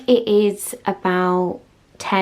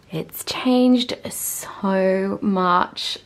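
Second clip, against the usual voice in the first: awed whisper; much slower than usual. Real, not acted. Room reveal, hushed awe.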